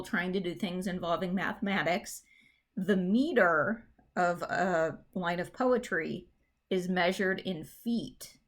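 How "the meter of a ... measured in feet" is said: slow, each word weighed; slow emphatic statement. Shown as a demonstration. Teacher stressing a key definition, slow and weighty. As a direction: lay it out slowly for students. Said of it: "So just think about that".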